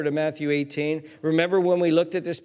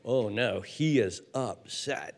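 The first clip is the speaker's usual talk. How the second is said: put-on nervous kids; 5 semitones lower, 5 dB quieter, slower than usual. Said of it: "They were like".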